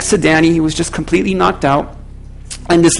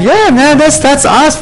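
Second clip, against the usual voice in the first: mock pride; 8 semitones higher, 4 dB louder, slower than usual. Mock pride at being recognised.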